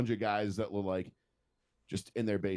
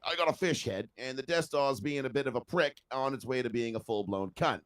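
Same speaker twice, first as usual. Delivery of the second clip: mock Australian voiceover; 2 semitones higher than usual. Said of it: "that Admiral Akbar voiceover".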